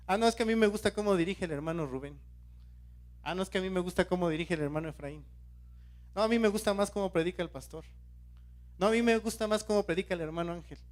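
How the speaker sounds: quick mock bickering of church members; childish favouritism. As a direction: rattle off each rival preference, mimicking petty squabblers. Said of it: "No somos niños cuando nos comportamos de ese modo".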